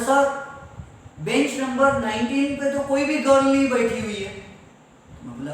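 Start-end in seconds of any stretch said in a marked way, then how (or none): 0.0-4.3 students calling out. Retold or imitated. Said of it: "सब student चिल्ला चिल्ला कर बोल रहे".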